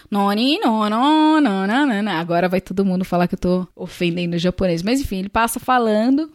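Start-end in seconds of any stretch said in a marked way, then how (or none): 0.1-2.1 gibberish imitation of a man speaking Japanese; mock Japanese. Hotel guy passing by talking, mock Japanese. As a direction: rattle off nonsense syllables as mock Japanese. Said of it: "passa um cara falando em japonês".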